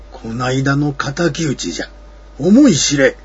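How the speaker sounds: loud booming threat; vengeful monster shout. Acted. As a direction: roar out the revenge. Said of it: "と言って".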